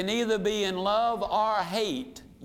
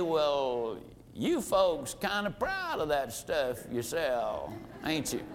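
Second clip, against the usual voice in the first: lower, softer folksy country talk; down-home good old boy philosopher; 5 semitones lower, 4 dB quieter than usual. Acted. Old boy prospect remarks on the price, folksy. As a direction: play the down-home philosopher, easygoing and low. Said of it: "old boy down home kind of a philosopher".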